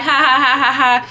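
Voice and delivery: mock string of ha-has; imitated laughing. Storyteller mimics cousins laughing at her, mock laughing. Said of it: "they're laughing 'cause they're just like".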